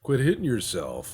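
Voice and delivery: high, loud, slow mockery; bully them playfully; taunting bully. Rival nations taunting Spain like a bully. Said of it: "be like".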